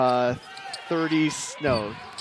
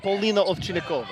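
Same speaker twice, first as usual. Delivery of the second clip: Polina Ovchinnikova in a light Russian accent; 4 semitones higher than usual. Shown as a demonstration. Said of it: "really bad Russian accent".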